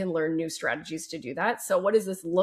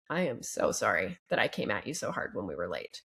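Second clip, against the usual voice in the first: sincere apology; 3 semitones lower than usual. Pretend. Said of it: "wife goes and approaches husband and says".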